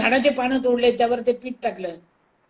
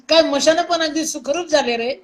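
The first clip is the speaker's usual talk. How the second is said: amused, higher-pitched through a laugh; 4 semitones higher than usual. Real, not acted. Joking about how comfortable cremation grounds have become, laughing. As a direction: break into a laugh and carry on talking. Laughs at her own joke.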